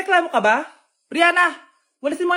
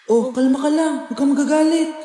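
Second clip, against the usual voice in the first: calming; 3 semitones lower than usual. Acted. Urges self not to get angry.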